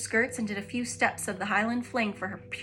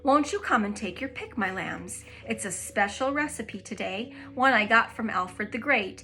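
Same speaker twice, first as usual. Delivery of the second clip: put-on sweet old lady; 4 dB louder than usual. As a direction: invite the children kindly. The speaker chats sweetly.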